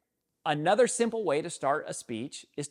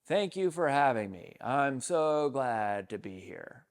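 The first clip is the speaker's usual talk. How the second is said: generic opener. Shown as a demonstration. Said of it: "something generic like".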